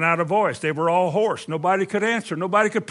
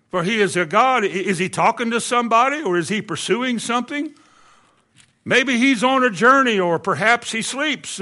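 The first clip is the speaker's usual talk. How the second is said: mocking taunt, pitched up; lively, higher-pitched jeering; Elijah; 4 semitones higher than usual. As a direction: needle them with sarcastic suggestions. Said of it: "said that he mocked them".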